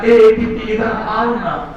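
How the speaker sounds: slow, sweet beckoning; lovingly coaxing. Acted. Glucose calling ATP over again, lovingly coaxing. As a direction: call them over with drawn-out affection. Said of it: "बड़ा प्यार से बोला".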